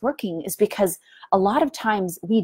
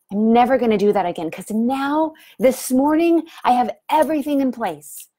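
mock eager resolution; 4 semitones higher than usual. Honeymoon phase resolve, voiced.

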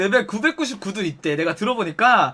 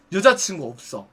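low, quieter customer reply; terse male customer; 6 semitones lower, 3 dB quieter than usual. Retold or imitated. Customer replying to the hostess's question, terse and low. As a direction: answer low and brief. Customer gives short answer.

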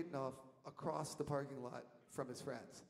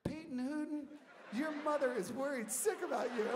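high, loud mock-scolding call; 13 semitones higher, 7 dB louder than usual. Storyteller calls to lost Peyton that his mother is worried, loud high call. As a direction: call out loudly, pitched way up.

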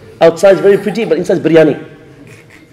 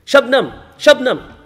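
slow, higher-pitched repeated call; mock shouting; 4 semitones higher, slower than usual. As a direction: imitate a madman calling out, without full force. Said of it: "they saw a man shouting".

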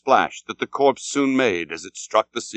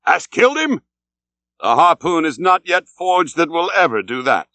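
much higher, louder calls; eager cry; 6 semitones higher, 4 dB louder than usual. A narrator's reading. Ahab crying to the other captain, loud and eager. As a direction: cry out across the water. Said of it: "cried Ahab".

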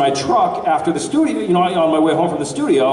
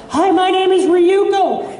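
Ryuko voice; 3 dB louder, slower than usual. Shown as a demonstration. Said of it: "Uncanny, right? No, I'm just kidding".

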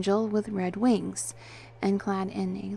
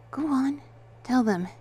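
pitched-up, coaxing prompt; encouraging nudge, pausing between phrases; gently encouraging; 6 semitones higher, 4 dB louder than usual. A narrator's reading. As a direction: gently urge him on. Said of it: "I said, gently encouraging him".

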